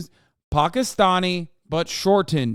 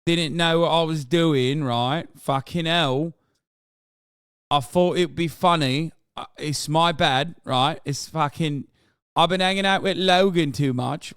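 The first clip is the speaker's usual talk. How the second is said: lightly voiced offhand mate saying sorry; a breezy, half-hearted sorry, mate; casual British apology. Streamer mocking KSI's apology, breezy and offhand. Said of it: "I coulda just said".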